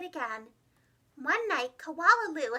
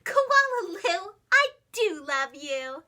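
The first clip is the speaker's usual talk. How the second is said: slow tender sing-song; loving mother; 6 dB louder, slower than usual. Acted. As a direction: coo it lovingly to her baby. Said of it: "laugh and shake her head and say".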